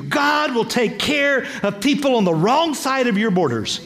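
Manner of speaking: rising, ringing proclamation; preaching build. Acted. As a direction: preach it out with growing force. Preaching climax.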